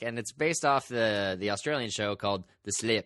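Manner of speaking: poor attempt at an Australian accent; lightly done, bad Australian accent; Seth Meyers. Quoting a comedian's bit, poor Australian accent. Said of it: "my poor accent was based on Seth's bad accent".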